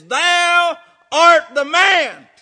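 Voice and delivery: slow, a touch of solemn accusation; lightly voiced Nathan, pointing at the king; accusing prophet.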